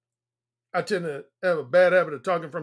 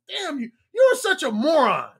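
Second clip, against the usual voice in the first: mildly exasperated, raised-pitch insult; frustrated; 5 semitones higher, 3 dB louder than usual. Acted. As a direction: voice someone fed up, slightly high. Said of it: "they get frustrated about something".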